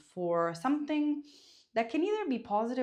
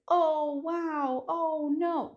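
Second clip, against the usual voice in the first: surprised exclamation; 7 semitones higher, 5 dB louder, much slower than usual. Shown as a demonstration. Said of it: "So, accidenti is".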